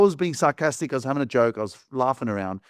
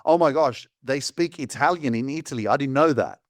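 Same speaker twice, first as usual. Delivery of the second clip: feigned naive surprise; sarcastic; 2 semitones higher than usual. Retold or imitated. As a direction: play dumb, as if just discovering it. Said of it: "'cause I was being sarcastic".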